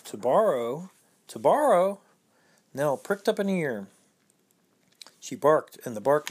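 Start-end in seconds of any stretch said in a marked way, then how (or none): 0.0-2.0 incredulous. Acted. Children indignant at the excuse.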